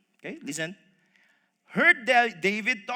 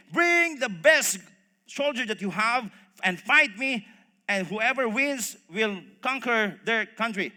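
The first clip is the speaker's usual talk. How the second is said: loud challenge, easing as it goes on; shouted taunt; 5 dB louder, slower than usual. Acted. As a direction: throw down a challenge, first words drawn out. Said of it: "shouting the usual taunt".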